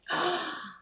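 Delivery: sharp high gasp of delight. Real, not acted. Gasps with delight on seeing the shortbread Sarah brought. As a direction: gasp as if the gift just appeared.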